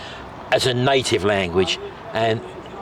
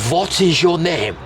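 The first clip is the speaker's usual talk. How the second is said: Uncle Albert's foreigner talk; 5 semitones higher, slower than usual. Retold or imitated. Retelling Uncle Albert chatting up a German woman, slow deliberate foreigner speech. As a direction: spell it out slowly for a foreigner. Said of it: "he come over to her and he went".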